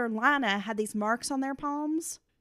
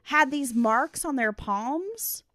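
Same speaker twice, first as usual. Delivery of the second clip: robot voice; 5 semitones higher than usual. Pretend. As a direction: drone it out like a robot. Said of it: "I should tell you about Futuretrons in a robot voice".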